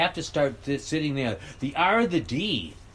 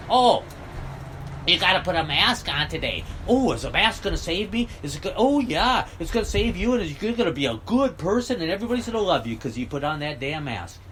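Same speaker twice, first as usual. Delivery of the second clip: higher, lightly voiced mock of a gullible masker; mocking a sheep; 3 semitones higher than usual. Mocking people who obey mask rules, lightly voiced sheep. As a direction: lampoon someone who trusts the mask. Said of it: "sit there and go".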